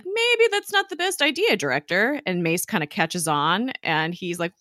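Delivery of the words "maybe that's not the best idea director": pitched way up, mock careful; a hint of cautious Coulson; lightly voiced warning to the director. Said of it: "Coulson's like".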